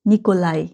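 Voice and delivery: "নিকোলাই" ending in ai, no j sound; silent-j Nikolai. Shown as a demonstration. Teacher echoing the dictionary, "নিকোলাই" ending in ai. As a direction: say "নিকোলাই" with a gliding vowel ending. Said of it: "জে উচ্চারণ হবে না".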